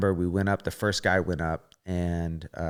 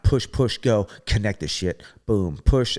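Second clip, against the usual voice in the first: urgent self-coaching; 4 dB louder than usual. Retold or imitated. Inner voice mid-routine.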